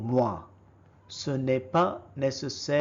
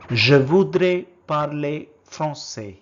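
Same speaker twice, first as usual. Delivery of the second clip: first take, projected clearly for the class; loud model word; 8 dB louder than usual. Shown as a demonstration. Teacher modelling a French word for learners, loud and clear. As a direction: call out the French word loudly. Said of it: "how do you say".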